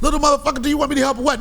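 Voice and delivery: loud, high exasperated snap; losing patience with the kid; frustrated dad. Retold or imitated. Dad fed up with his son's bossiness, loud exasperated. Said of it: "I was like".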